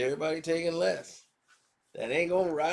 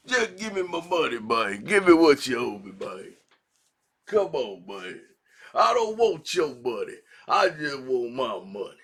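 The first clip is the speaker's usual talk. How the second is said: mock demand; 3 semitones lower, 4 dB louder than usual. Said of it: "screaming about publishing".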